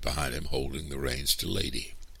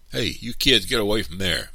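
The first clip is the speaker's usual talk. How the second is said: put-on raised, higher shout at children; shouted warning; 5 semitones higher, 5 dB louder than usual. A narrator's reading. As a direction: shout to chase the kids off. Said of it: "Mister Anderson shouted when he saw us".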